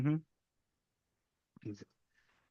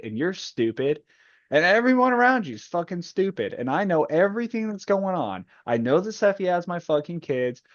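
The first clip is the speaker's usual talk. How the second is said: mock furious tirade, pitched up; Mustang rant. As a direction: rant it like a fed-up leader tearing into him. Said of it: "She's like".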